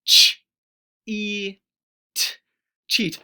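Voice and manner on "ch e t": sounded out, louder, sound by sound; stretched loud sounds. Shown as a demonstration. Teacher sounding out the new word loudly. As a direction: call each sound out apart. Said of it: "Let's try it".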